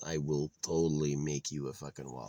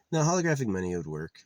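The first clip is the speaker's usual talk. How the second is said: quick, louder first insistence; emphatic insisting; 3 semitones higher, 6 dB louder, faster than usual. Real, not acted. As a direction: push the idea hard and fast. Insists, then repeats it quietly.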